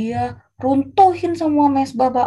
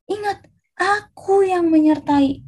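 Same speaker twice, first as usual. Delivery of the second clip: slow, raised, emphatic divine voice; God's solemn reminder; 6 semitones higher, slower than usual. Acted. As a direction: proclaim it slowly, pitched up. Deus responde a Gideão.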